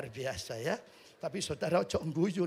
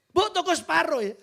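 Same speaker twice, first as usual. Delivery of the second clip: pleading request; 9 semitones higher, 10 dB louder than usual. Retold or imitated. Husband asking vendor for half egg.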